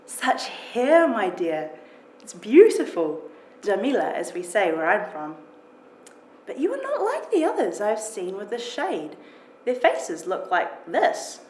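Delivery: a hint of a heavy foreign accent, kind and curious; gentle heavily accented English, savouring the words. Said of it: "heavily accented English fills the room".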